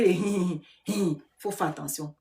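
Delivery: imitated "hee hee" laugh; mock snicker. Warning viewers about those who laugh along, mock snicker. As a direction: imitate a two-faced person's little laugh. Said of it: "il y a un qui rit".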